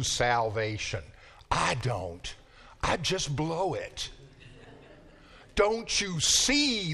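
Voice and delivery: slow, drawn-out Southern accent imitating an old professor. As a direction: lightly imitate a gentle Southern drawl, unhurried. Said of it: "in his beautiful Southern accent".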